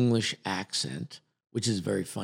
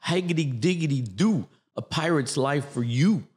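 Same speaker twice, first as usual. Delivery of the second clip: light Bronx accent on a pirate; 4 semitones higher than usual. Shown as a demonstration. Actor shows his wrong-accent pirate audition, in a Bronx accent. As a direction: play a pirate from the Bronx, higher and jaunty. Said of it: "I do my Bronx pirate".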